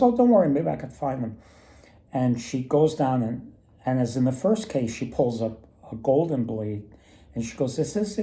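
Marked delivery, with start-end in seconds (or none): 0.0-1.4 quick, higher reassuring elf. Retold or imitated. Elf comforts the greedy woodsman, quick and high. 7.8-8.2 high questioning elf; lightly voiced elf asking, pitched up. Elf shows the golden blade, high question.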